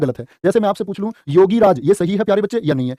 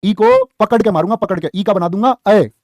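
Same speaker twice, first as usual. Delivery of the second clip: playful threat; 3 semitones higher, 4 dB louder than usual. Retold or imitated. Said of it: "तो क्या बोलोगे".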